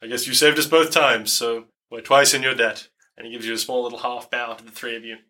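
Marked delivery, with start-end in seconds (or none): 0.0-2.9 lightly voiced droopy dog; a hint of a droopy dog character; the speaker's droopy dog voice. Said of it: "in his droopy dog voice".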